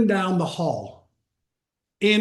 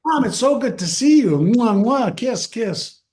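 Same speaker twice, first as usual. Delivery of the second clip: high, loud fussing over mom; imitating an over-eager hello with kisses; acted gushing greeting; 5 semitones higher, 4 dB louder than usual. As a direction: gush with exaggerated kissy noises. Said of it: "trying to change her physiology".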